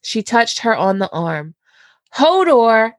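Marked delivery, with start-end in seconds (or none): 2.2-2.9 mock yell. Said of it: "Sansa yelled".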